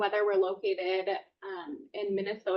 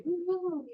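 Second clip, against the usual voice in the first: drawn-out, high-pitched "ooh"; a mock ooh, pitched well up; retold "ooh"; 9 semitones higher than usual. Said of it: "And I was like".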